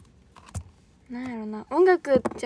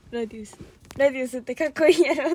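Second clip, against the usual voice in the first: imitating teacher's sudden excitement; 3 dB louder, faster than usual. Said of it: "急にテンション高なった".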